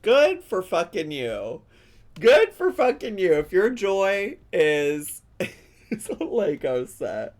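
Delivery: loud, high gleeful quoting, building to a laugh; excited retelling. Retold or imitated. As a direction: shout it with joy and laughter. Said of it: "She said".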